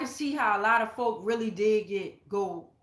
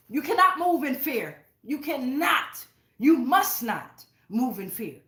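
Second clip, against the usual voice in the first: loud and forceful; 2 semitones higher, 3 dB louder than usual. Real, not acted. Reader urging viewers not to live in fear, loud and firm. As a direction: raise the voice, firm and commanding. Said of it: "I'm loud right now".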